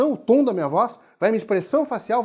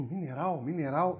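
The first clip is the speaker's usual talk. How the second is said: low, quiet, questioning repetition; "mineral" low and tentative, ending on a rise; pondering; 5 semitones lower, 8 dB quieter, slower than usual. Retold or imitated. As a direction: mull "mineral" over softly to yourself, puzzled. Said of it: "Eu digo".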